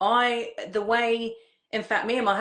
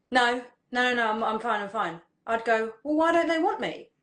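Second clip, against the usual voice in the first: anxious inner chatter; 3 semitones higher, faster than usual. Retold or imitated. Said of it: "that emotional inner chatter".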